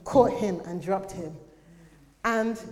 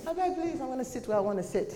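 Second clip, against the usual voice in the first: higher-pitched mock pleading protest; pleading refusal; 5 semitones higher, faster than usual. Churchgoer refusing the usher's seat, mock pleading. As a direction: imitate someone brushing off the usher.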